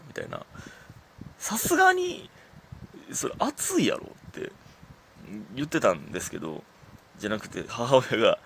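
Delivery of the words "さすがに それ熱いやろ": mock comment. Mimicking a comment on concert footage.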